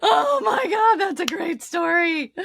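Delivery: high, loud, helpless amusement; cracking up at a great story; laughing reaction. Real, not acted. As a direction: say it through real laughter.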